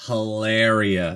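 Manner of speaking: drawn-out, slow mock Spanish name; mock Spanish accent. Co-host mimicking the celebrity's name, mock Spanish accent.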